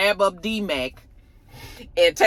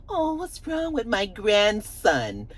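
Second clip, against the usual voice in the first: granny voice; 4 dB quieter, slower than usual. Retold or imitated. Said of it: "So then here come Kate".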